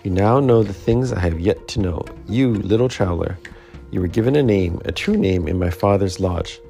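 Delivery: tender murmur. Acted. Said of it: "It crept to his lips".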